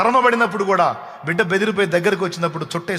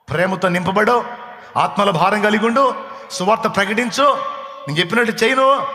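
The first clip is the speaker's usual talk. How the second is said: rising commands; 4 semitones higher than usual. Acted. God instructs the believer, rising in force. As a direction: build each command up.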